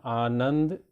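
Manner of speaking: slow आनंद, weight on its middle नं; stressed middle syllable. Shown as a demonstration. Teacher repeating an example for children, middle of आनंद stressed. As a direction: lean slowly on नं in आनंद. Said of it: "जोर देने वाला हमारा बीच में".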